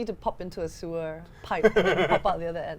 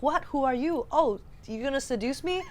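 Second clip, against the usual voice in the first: higher-pitched mock movie lines; hammed-up cutscene dialogue; 6 semitones higher than usual. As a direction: play a melodramatic cutscene character, half joking. Acts out stitched-together game cutscenes.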